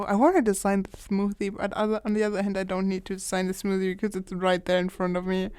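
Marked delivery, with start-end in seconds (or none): 0.0-2.9 whisper. Real, not acted. Answers in a whisper.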